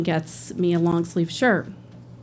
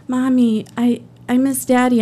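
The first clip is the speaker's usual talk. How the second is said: put-on child missing daddy; 5 semitones higher than usual. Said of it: "she's crying".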